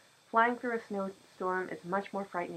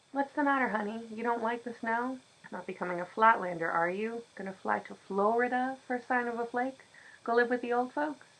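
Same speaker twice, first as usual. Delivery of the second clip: teasing; 4 semitones higher than usual. Acted. Old man teasing girl.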